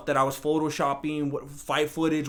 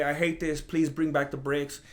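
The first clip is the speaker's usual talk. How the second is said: whiny fan; 3 semitones lower, 5 dB quieter than usual. Retold or imitated. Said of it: "some other people are gonna say".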